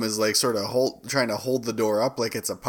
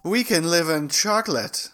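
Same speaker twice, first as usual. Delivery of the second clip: mock earnest hero; 6 semitones higher than usual. Parodies comic dialogue.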